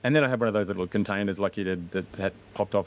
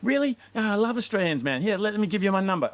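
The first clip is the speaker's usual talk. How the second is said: put-on drunk American bro; 12 semitones higher than usual. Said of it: "And they'd be like".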